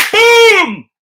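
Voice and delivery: loud, high shouted boom; mock slam. Driver imagining throwing the drunk rider out, loud shouted boom. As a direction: yell it like a hit landing.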